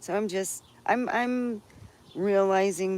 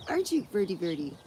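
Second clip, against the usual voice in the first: cooing to a bird; 3 semitones higher, 3 dB quieter, faster than usual. Pretend.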